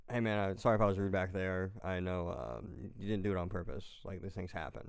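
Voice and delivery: soft, reasonable apology trailing off; understated, conciliatory. Retold or imitated. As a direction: retell trying to smooth things over calmly. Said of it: "I try to be reasonable".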